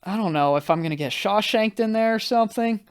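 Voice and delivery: retold freak-out. Guest told he's going to prison, mock freak-out. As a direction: spin out into comic dread. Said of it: "I'm freaking out".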